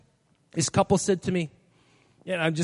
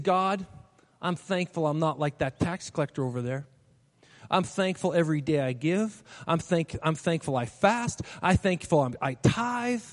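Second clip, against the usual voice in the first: smug Pharisee; 5 semitones lower, 4 dB quieter than usual. Acted.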